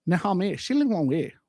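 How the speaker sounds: lightly voiced fake Mandarin; mock Mandarin. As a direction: toss off some pretend Mandarin. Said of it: "change to a Mandarin Chinese".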